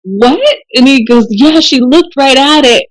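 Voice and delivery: high, amused, half laughing; laughing disbelief. Real, not acted. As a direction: tell it through rising giggles. Amused disbelief retelling the story.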